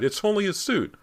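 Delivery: high, laughing with relief; laughing cry. A narrator's reading. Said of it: "he cried".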